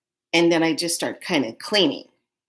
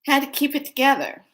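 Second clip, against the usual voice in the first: "had to keep it together" said much higher with a hit on "had"; holding it together; 9 semitones higher, 3 dB louder than usual. Shown as a demonstration. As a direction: pitch "had to keep it together" high, leaning on "had". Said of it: "gonna show you how I".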